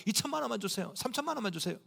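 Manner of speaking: soft, meek mock plea; begging like a pauper. Believer asking God for money like a beggar, meek plea. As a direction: beg small, keeping the voice down. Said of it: "무슨 거지처럼".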